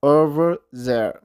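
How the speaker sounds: "Over there" slow, r linked into there; very slow linking of over there. Shown as a demonstration. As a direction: draw out "Over there" joining the r. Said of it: "እንታይ ክትብሎ".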